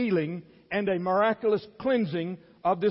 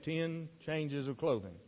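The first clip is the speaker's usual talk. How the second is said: zacht en langzaam, met een knipoog; knowing aside; 4 semitones lower, 9 dB quieter, slower than usual. Shown as a demonstration. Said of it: "You ladies will be glad to hear that".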